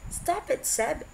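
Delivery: exasperated half yell into the phone. A narrator's reading. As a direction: cut him off with a half shout. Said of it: "Blaine half yelled into the phone".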